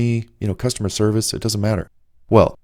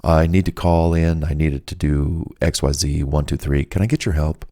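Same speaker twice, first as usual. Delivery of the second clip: soothing vibe; 3 semitones lower than usual. Acted. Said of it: "send out that vibe".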